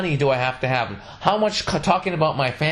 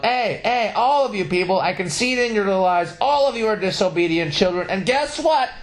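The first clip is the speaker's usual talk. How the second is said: higher, hammed-up street preacher rant; mock preacher yelling; 6 semitones higher than usual. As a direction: bellow it like a mock doomsday preacher. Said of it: "I just started yelling at the top of my lungs".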